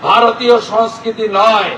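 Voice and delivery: emphatic political oratory with pauses between phrases; rally speech. Real, not acted. Politician rallying a crowd to defend Bengali culture, declamatory.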